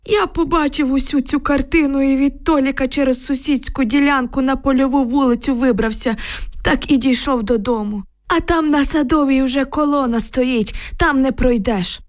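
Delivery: put-on high, anxious old villager's voice; frightened old man. A narrator's reading. Old neighbour telling girls about the tanks, anxious. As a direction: tell it like a shaken old grandad.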